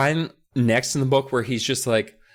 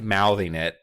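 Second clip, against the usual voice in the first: ordinary talk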